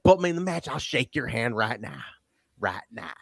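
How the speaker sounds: mock Southern accent, dropping away at the end; A J, super Southern. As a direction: lightly imitate a super Southern wrestler. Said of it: "He's super Southern".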